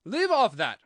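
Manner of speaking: loud, high queenly shriek; screamed. A narrator's reading. Queen to the bowing gardeners, high scream. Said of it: "screamed the Queen".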